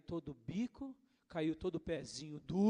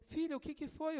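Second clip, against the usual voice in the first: gentle concern; 10 semitones higher than usual. Retold or imitated. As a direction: ask the crying child tenderly. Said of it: "a Nídia perguntou".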